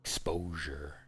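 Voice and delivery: whispering. Real, not acted. Whispered aside after visibility.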